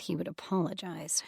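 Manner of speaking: a soft grumble under her breath; muttered. Acted. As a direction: mutter it to herself. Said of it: "she muttered under her breath".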